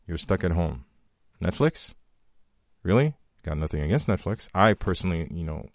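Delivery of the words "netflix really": incredulous. Real, not acted. Incredulous question.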